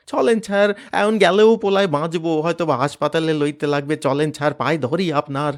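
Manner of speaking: high, loud frantic begging; panicked plea; desperate pleading. Acted. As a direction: beg the officer for your son. Father begging police.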